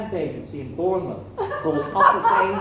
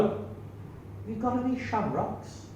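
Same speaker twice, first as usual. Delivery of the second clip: a slow, higher little leprechaun voice; lightly voiced leprechaun; 6 semitones higher, 7 dB quieter, slower than usual. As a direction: ask slowly and sweetly like a leprechaun. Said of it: "she's playing the part of a leprechaun".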